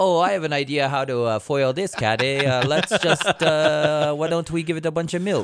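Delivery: put-on Canadian accent. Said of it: "Your Canadian accent is getting more suspect".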